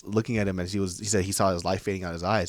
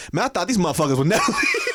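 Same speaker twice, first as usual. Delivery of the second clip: lightly voiced low man; 7 semitones higher, 4 dB louder than usual. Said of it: "black man voice".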